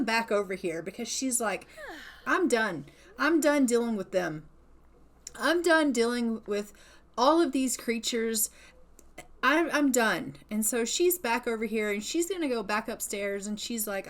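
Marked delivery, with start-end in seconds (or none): 2.3-10.4 fed up, firm and emphatic; angry. Acted. Bitten woman finished with vampires, angry and fed up. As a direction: put your foot down with mild acted anger. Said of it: "And she is angry".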